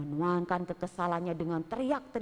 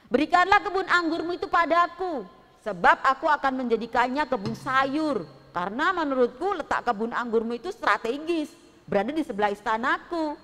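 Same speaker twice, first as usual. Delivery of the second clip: lightly voiced king, louder and higher; a pushy king making his offer; a hint of a bossy king bargaining; demanding king; 3 semitones higher, 6 dB louder than usual. King Ahab demands the vineyard.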